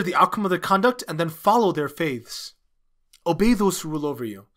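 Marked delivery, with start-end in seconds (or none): none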